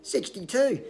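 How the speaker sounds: big loud call, pitched high; retold inmate's shout, high and loud; yelled out. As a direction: holler it down the prison corridor. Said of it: "another guy yelled out".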